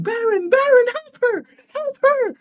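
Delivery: very high, loud mock cries for help; imitated panicked yelling; frantic calling out. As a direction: shriek it like an alarmed onlooker.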